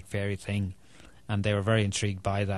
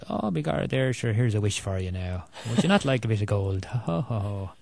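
a light stage-Irish leprechaun voice, mostly near normal; lightly hammed-up fairy offering a wish and gold. Author mocks clichéd movie fairy dialogue, lightly hammed leprechaun. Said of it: "not the usual".

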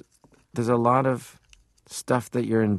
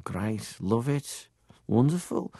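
put-on Liverpool accent; 2 semitones higher, 4 dB quieter, slower than usual. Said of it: "my dad had a Liverpool accent".

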